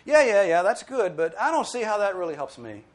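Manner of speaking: hammed-up shrug of a bored listener; dismissive mock voice. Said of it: "and go".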